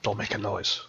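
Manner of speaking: hushed urgent whisper. Acted. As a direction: whisper it so nobody hears. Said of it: "So he's whispering".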